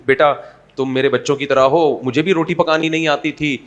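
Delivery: mildly gentle, reassuring talk; gentle mother-in-law. Acted. Mother-in-law kindly encouraging her daughter-in-law, mildly gentle. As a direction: reassure a learner kindly and calmly. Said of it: "ساس بہو کو آرام سے کہہ دیتی ہے".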